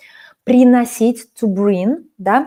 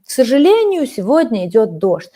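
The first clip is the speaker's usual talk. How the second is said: mock sad; faster than usual. Teacher repeats sad Katya line for practice, mock sad. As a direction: lightly act out the gloomy weather. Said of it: "and I'm sad because of this".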